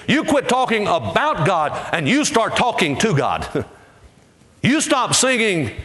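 high, rolling preacher's build; preaching at full force. Acted. Preacher urging the congregation to sing to God, fervent. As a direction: keep rising like the sermon's climax.

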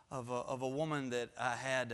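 ordinary talk

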